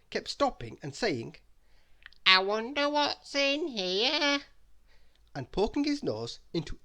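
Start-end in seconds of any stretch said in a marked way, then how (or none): 2.3-4.4 high, slow curious voice; nosey character voice. Acted. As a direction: snoop with prying curiosity. Mister Nosey snooping.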